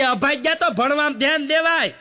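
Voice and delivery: mother's sweet tone turns into a mild mock scold. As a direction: snap at the child like a fed-up mother. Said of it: "આખો tone ફરી ગયો".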